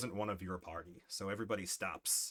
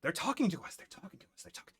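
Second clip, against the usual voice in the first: startled; 8 semitones higher, faster than usual. Acted. Forest creatures react in surprise.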